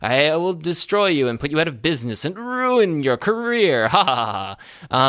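hammed-up villain threat with mock laugh; mustache twirling villain. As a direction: gloat like a cartoon villain. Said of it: "the mustache twirling villain".

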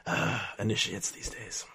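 low-volume, slow grumble to himself; muttering. Acted. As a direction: sigh and mutter it under your breath. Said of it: "Shaking his head and muttering".

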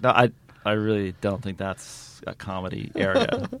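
low, soft, hesitant objection; Ricky Gervais. Retold or imitated. Comedian gently turns down a grim improv idea, quiet. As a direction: imitate an awkward comedian treading carefully.

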